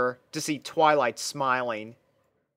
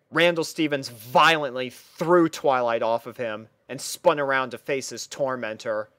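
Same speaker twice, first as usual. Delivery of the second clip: plain reading voice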